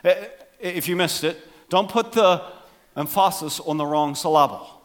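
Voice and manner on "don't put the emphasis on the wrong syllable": em-FAH-sis for "emphasis", suh-LAH-bul for "syllable"; misplaced word stress. Shown as a demonstration. Repeating for those who missed it, "emphasis" and "syllable" stressed mid-word. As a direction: put the beat on the second vowel of "emphasis" and "syllable". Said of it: "'cause it's hard to say".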